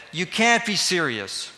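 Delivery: lightly mock the culture's disbelief, drawing it out; incredulous cultural voice. Culture scoffing at the call to obey, mildly incredulous. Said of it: "you hear these cultural voices".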